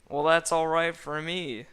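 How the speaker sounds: bursts out loud and high; a cartoon sidekick yelling happily; loud excited Donkey. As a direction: shout it out with glee. Donkey voiced, excited outburst.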